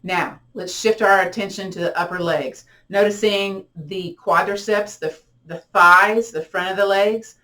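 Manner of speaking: unhurried, even body-scan voice; guided meditation. Acted.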